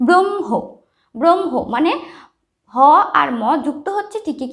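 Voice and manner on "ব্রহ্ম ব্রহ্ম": ব্রহ্ম as "brom-ho", held m, light h; ব্রহ্ম pronounced with strong m. Shown as a demonstration. Teacher modelling for pupils, ব্রহ্ম with m outweighing h. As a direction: lean on the m in ব্রহ্ম. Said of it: "আমরা এভাবে উচ্চারণ করব".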